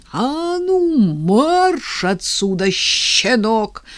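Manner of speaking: high, loud yell. A narrator's reading. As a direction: bellow him out of the church. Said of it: "заорал он на всю церковь".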